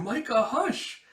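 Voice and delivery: high, slow shushing; boy quieting his bold friend; slow hush. Acted. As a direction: hush her slowly. Warning the girl to be quiet.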